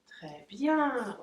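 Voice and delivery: long, lilting praise for a dog; drawn-out praise. Real, not acted. Owner praising her waiting dog, drawn-out encouragement.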